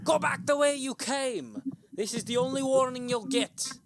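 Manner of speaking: high, loud harsh warning. Acted. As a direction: threaten them from the shadows. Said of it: "a harsh voice calls from the shadows".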